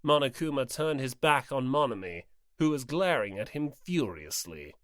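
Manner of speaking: calm storybook narration; even narrator voice; story narration. A narrator's reading. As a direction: read it as the narrator.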